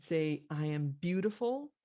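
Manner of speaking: lightly voiced mother, lilting up at the end; mother coaching child. Mother to crying little girl, lightly voiced coaching. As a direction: offer it for a child to repeat. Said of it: "the mother says".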